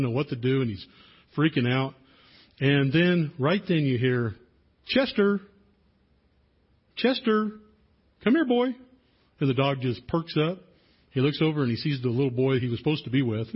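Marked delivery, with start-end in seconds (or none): 4.9-8.7 put-on a boy calling his dog from the stands. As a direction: call the dog home over the noise. Boy calls his lost dog.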